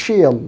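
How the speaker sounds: she'll with a long ee, "sheel"; long vowel. Shown as a demonstration. Teacher demonstrates the contraction, long vowel. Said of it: "long sound ব্যবহার করতে হবে".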